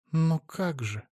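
soft, lost question; bewildered. A narrator's reading. Aunt shaken by his confession, bewildered murmur. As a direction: trail off, at a loss. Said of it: "растерянно сказала".

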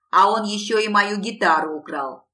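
loud, indignant tattle; tattling. A narrator's reading. Lanky lad denouncing Alisa to old Ronni, tattling. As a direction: tell on someone in loud complaint. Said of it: "наябедничал шатлатый пацан".

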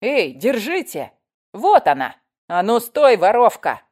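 loud, high calls to stop someone; urgent crowd outcry; shouting after thief. Acted. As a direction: raise the alarm and give chase. Crowd chasing a supposed thief.

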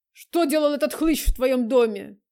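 loud furious accusation; jealous rage. Acted. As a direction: hurl it at her jealously. Ревнивый Влад набрасывается. (громкая ревнивая ярость)

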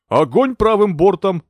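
loud, high, slow command; captain shouting fire orders to the crew; shouted order. A narrator's reading. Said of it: "закричал Энтони".

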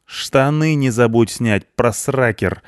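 high, biting comeback; savage retort. A narrator's reading. Cleaner lashing out at the boasting punk, savage. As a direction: lash out at him angrily. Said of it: "вызверилась на него Швабра".

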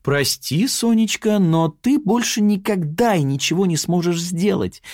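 a cheeky taunting triumph; insolent. Acted. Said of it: "нахально рассмеялась Яна Лапина".

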